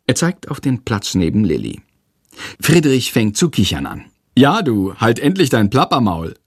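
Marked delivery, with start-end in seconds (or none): 4.4-6.3 a mildly cheeky mocking echo. Classmate mocks Jendrik's outburst, lightly cheeky. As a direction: parrot the line back, lightly teasing. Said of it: "kommentiert er frech".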